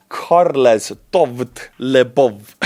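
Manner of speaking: Karles Tovt Lebov read out very slowly, each part drawn out; butchered name. Shown as a demonstration. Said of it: "Your name butchered to the orbit".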